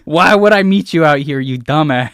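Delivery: shouted high scornful insults; angry mocking villain. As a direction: yell down at the idiot mage. Necromancer mocks the player.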